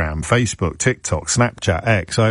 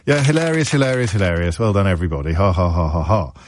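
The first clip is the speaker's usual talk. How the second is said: dry mock appreciation, sinking lower; sarcastic amusement; 3 semitones lower than usual. Host answering listeners who mock his accent, sarcastic. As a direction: fake laugh, letting the pitch drop away.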